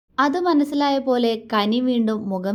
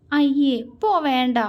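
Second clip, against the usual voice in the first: shy, higher brush-off; bashful; 5 semitones higher than usual. A narrator's reading. Wife bashfully refusing her husband, coy. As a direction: bashfully push him away. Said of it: "നാണത്തോടെ".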